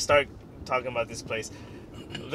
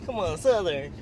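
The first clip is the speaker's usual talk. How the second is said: put-on Southern accent. Pushing a friend to do Southern, light Southern accent. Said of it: "You have to do Southern".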